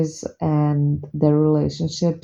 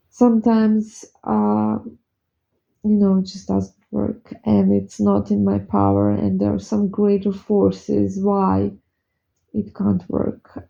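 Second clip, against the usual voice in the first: real, slightly raised voice after crying; tearful; 3 semitones higher than usual. Real, not acted. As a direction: carry on talking through held-back tears. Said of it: "I shouldn't be crying".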